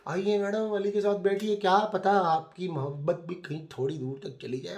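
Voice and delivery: lightly mocking host voice; teasing invite. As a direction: usher her in with a sly tease. Mock invitation from the creators.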